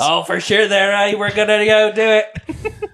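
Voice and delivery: put-on playful Canadian accent, laughing through it; mock Canadian accent. Mocking the bad accent back, in a joking Canadian accent. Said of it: "You don't even get the Canadian".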